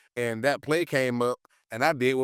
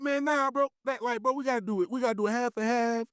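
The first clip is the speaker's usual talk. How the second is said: mock heated teammate; 9 semitones higher than usual. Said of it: "I'm like".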